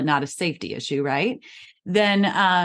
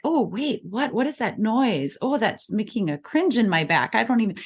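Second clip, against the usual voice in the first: higher, puzzled mock discomfort; mock pained wince; 4 semitones higher than usual. Shown as a demonstration. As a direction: act as if a noise hurts your ears. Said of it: "it's piercing your ears".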